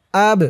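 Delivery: b released with a bounce; qalqalah push. Shown as a demonstration. Teacher showing qalqalah, b bounced. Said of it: "ধাক্কা দিয়ে পড়তে হবে".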